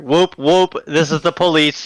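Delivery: whooping police siren bit; police siren call. Retold or imitated. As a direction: play a cop on a loudspeaker. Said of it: "No, you heard".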